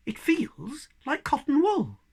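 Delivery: a surprised breathy hush, almost whispered. Acted. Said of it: "she said in a surprised voice".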